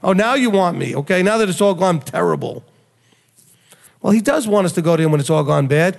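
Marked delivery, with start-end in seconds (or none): 0.0-2.7 lightly voiced wry parent; mild sarcasm, not angry; sarcastic God. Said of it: "He said".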